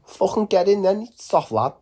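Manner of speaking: high-pitched, aggressive mock Scouser; Scouse windup with horrible attitude; hostile Scouse accent. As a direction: sneer it in a high put-on Scouse voice. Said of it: "I'd be hostile and that".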